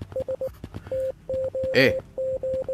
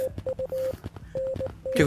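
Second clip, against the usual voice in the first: drawn out slowly; 11 dB quieter than usual. Shown as a demonstration. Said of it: "Estoy escuchando código Morse".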